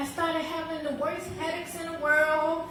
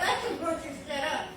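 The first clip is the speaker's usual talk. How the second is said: laughing repeat; 3 semitones lower, 4 dB quieter, faster than usual. Retold or imitated. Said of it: "She was like".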